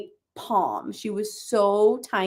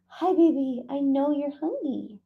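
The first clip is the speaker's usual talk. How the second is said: cooing to cat; 5 semitones higher, 4 dB quieter than usual. Real, not acted. Talking to her cat.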